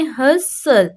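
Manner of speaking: "हसल" in two parts, no T sound; silent T. Shown as a demonstration. Teacher showing students the word, silent T in "हसल". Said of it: "टी इसमें मैंने silent कर दिया".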